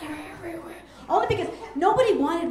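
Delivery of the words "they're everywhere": spooky whisper parody. Retold or imitated. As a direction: drag it out like a haunted kid. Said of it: "I'm like".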